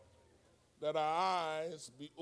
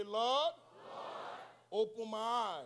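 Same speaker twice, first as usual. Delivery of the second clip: firmer, raised declaration; meaning it; 3 semitones higher, 5 dB louder than usual. Shown as a demonstration. Preacher prompting congregation to repeat after him, meaning it. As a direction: lift it and declare it like you mean it. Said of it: "Say it like you mean it".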